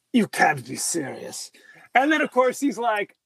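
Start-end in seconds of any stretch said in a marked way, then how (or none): 0.1-1.5 low, slow put-on Plummer voice; a hint of an incredulous Plummer; Christopher Plummer voice. Friend scoffs at the president, low mock Plummer. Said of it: "he has that Christopher Plummer voice".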